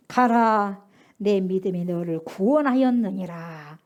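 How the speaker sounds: low, slow solemn words; solemn blessing. Acted. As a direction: pronounce the healing calmly and gravely. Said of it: "예수께서 이르시되".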